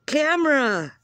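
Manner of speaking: high, loud exasperated yell; frustrated shout. Real, not acted. Frustrated vlogger yelling at her broken camera, loud outburst. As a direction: blurt the word out in frustration.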